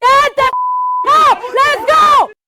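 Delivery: high-pitched commanding scream, drill instructor style. A recruit division commander meets the new recruits: screaming. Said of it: "this fat chick starts screaming at".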